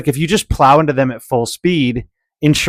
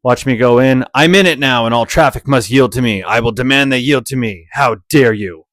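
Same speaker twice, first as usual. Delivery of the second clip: entitled driver; 3 semitones lower than usual. Retold or imitated. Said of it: "He's just gonna be like".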